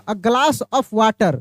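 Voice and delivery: drawn-out dictation pace; slow teacher's demo of a glass of water; very slow model phrase. Shown as a demonstration. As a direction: stretch every word for the class to copy. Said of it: "देखिए singular वाटर आ जाए".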